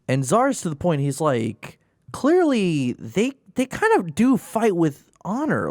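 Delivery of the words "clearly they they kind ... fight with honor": excited alien lieutenant. Retold or imitated. Voicing the alien second-in-command Zar.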